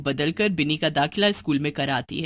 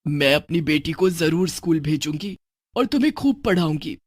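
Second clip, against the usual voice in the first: lightly voiced witch mother; 3 semitones lower than usual.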